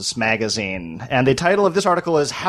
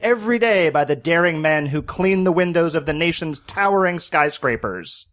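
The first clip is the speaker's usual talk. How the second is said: put-on old-timey newsreel voice. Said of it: "old-timey newsreel voice".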